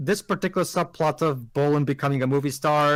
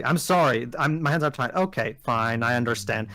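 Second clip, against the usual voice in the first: mock mature reply; 5 semitones lower than usual. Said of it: "notice how she took that maturely".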